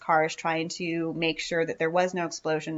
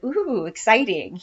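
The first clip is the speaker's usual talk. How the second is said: mock excitement; 4 semitones higher, 5 dB louder than usual. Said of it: "you're just like".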